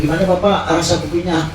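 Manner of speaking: chirpy vendor checking satisfaction; coffee seller voice. Retold or imitated.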